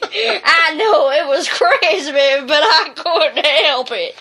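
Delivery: slow, chuckling through it; amused narrator chuckling slowly; laughing. Acted. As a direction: laugh while confessing. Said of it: "I found myself laughing".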